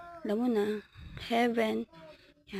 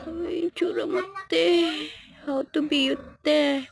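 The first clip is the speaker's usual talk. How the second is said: sassy tease; 8 semitones higher, 5 dB louder than usual. Acted. Teasing a friend posing.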